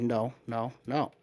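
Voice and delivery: calm, level-voiced no; calm refusal. Telling how they refused the ex's request, calm. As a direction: refuse calmly, without raising your voice. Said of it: "I'm just calm like this".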